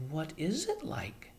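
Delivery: whispered question. A narrator's reading. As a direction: ask it breathless and scared. Arrietty whispering.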